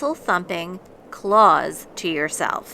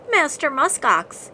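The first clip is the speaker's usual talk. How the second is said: polite request; 7 semitones higher, 3 dB louder than usual. A narrator's reading. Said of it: "he asked politely".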